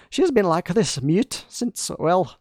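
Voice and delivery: lightly put-on Scottish lilt; half-joking Scottish accent; mock Scottish accent. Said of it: "Now I feel like she's Scottish".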